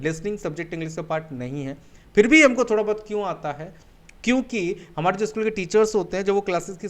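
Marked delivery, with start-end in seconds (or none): 0.0-1.8 listening said again quieter, settling; a gentle confirming echo; softer repeat. Shown as a demonstration. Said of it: "Yes, my dear friend".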